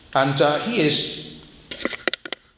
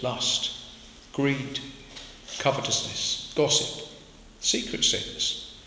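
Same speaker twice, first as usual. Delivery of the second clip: hushed; 8 dB quieter, slower than usual. Real, not acted. Preacher hushes on secret sins.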